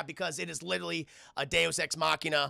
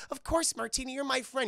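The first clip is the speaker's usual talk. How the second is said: higher, sweet reindeer voice; pitched-up friendly character; Olive; 6 semitones higher than usual. Retold or imitated. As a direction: agree readily in a raised character voice. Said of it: "she's like".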